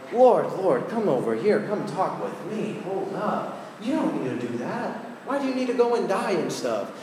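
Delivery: hammed-up confidential pleading; mock nagging, jumping up in pitch; coaxing protest. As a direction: take someone aside and talk them out of it. Acts Peter taking Jesus aside, remonstrating.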